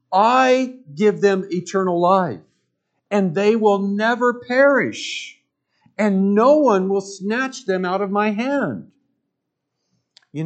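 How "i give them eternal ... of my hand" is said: raised, emphatic preacher quote, higher and louder; forceful preaching. Acted. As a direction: proclaim it like a promise from the pulpit. Preacher quoting Jesus with force.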